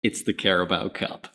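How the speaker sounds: put-on a Yank hamming up an English presenter accent; mock English accent for a channel intro. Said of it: "telling me not to do my English accent".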